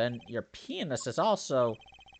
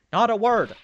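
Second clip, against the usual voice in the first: urgent insistence; 9 semitones higher, 11 dB louder than usual. Acted. Character insists on secrecy.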